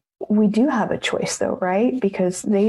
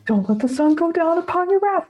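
higher, preachy church voice; quoting the church saying, lightly preachy and higher; preachy quote; 8 semitones higher than usual. Retold or imitated. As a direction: recite the verse like a scolding elder.

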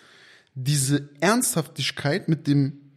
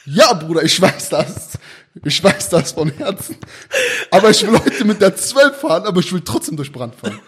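pleading passenger; 5 dB louder than usual. Retold or imitated. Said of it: "zu denen sagen".

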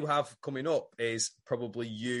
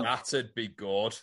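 slow sarcastic; much slower than usual. Acted. Repeats own line, drawn out.

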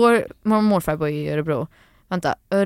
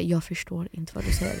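soft, lower aside; retold confusion; 3 semitones lower, 9 dB quieter than usual. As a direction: say it softly and low. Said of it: "jag var så här". (låg, dämpad replik)

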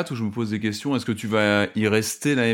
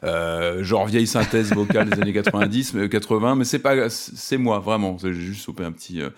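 metallic voice from a cold; robot voice. Real, not acted. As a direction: sound like a husky robot with a cold. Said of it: "j'ai une voix un peu métallique".

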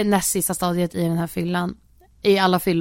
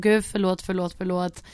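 mock remorseful apology; 2 semitones lower, 6 dB quieter than usual. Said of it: "då vart du så ångerfull".

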